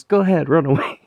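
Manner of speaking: high, loud shrieked dare; screaming dare. Retold or imitated. Mother daring her son to jump out, shrieking.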